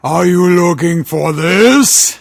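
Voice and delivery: menacing taunt. Acted. Villain taunting.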